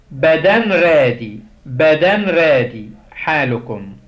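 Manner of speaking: بدن رادي spelled out slowly, syllable by syllable; slow Coptic drill. Shown as a demonstration. Teacher drilling Coptic verb forms, slow and clear. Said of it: "ناخد".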